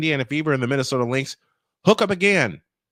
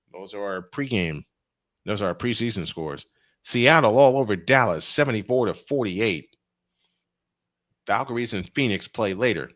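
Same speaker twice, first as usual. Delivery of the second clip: normal talking voice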